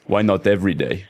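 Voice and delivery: put-on lightly botched, unplaceable accent; Arnold. Retelling Arnold's reply to an introduction, lightly botched accent. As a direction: attempt a vague foreign accent, not quite landing. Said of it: "I don't know what accent that was".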